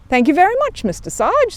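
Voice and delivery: high, bright thanks; grateful. Acted. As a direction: thank him gladly. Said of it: "said Paddington gratefully".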